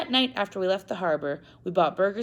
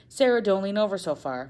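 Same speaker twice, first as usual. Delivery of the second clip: lightly voiced father, a touch louder in warning; mild warning; 4 semitones higher, 5 dB louder than usual. Father warning daughter at the rail, light warning. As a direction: call a caution, not stern. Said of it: "my father warned".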